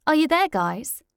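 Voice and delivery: high cheery host question; bright host call. Acted. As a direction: greet callers on air. Radio host calling in.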